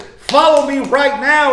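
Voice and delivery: stern, insistent order. Acted. Jesus imagined ordering Matthew sternly, stern command. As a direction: press it as a demand for immediate obedience. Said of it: "was he stern and said".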